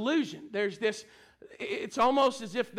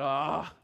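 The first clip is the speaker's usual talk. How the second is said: put-on old man's scoffing "ah"; an elderly man's put-off groan, retold; dismissive "ah"; 2 semitones lower than usual. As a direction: let out a drawn-out, imitated "ah". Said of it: "like that".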